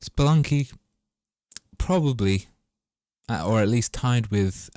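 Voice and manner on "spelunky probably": high, loud, excited naming. Real, not acted. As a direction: announce the name with glee. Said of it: "everything but Spelunky".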